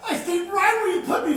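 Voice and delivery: fast, laughing and crying at once; breathless laughing tears; laughing through tears. Acted. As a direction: tumble out the words, half sobbing. Telling father of the healing.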